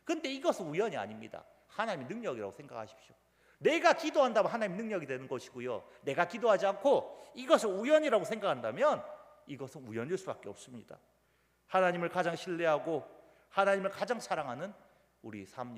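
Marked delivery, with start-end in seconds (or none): 3.6-11.0 raised, insistent pulpit delivery; emphatic preaching. Acted. Preacher warning against calling answered prayer chance, emphatic. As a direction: drive the contrast home.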